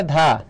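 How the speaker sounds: ধা said alone as "dha"; teacher isolating ধা, aspirated "dha"; syllable demonstration. Shown as a demonstration. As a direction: sound out ধা as a separate middle syllable. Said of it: "অধ্যাপক শব্দের উচ্চারণ".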